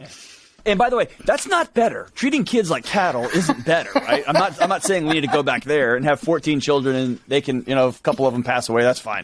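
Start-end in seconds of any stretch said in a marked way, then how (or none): 0.6-8.7 amused disclaimer, pitched up with a laugh; laughing aside. Real, not acted.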